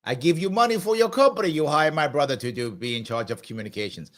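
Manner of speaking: put-on half-hearted comic Russian accent; bad Russian accent. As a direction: attempt a Russian accent, badly. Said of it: "use a Russian accent".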